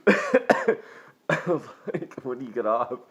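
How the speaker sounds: fired worker thrilled, asking his friend when she's off; giddy squeal. Retold or imitated. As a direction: squeak it out with delight at the news. Giddy after being fired.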